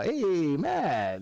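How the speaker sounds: put-on high-pitched greeting to an old buddy; excited greeting. Greeting Matt at a concert, excited. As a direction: draw out a delighted hello. Greeting a long-lost friend.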